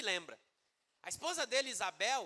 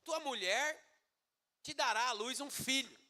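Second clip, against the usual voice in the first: high, measured proclamation with the name stretched out; divine announcement; 5 semitones higher than usual. Acted. The Lord announcing a son to Zacarias, solemn proclamation. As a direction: announce it phrase by phrase. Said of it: "E aí o Senhor fala".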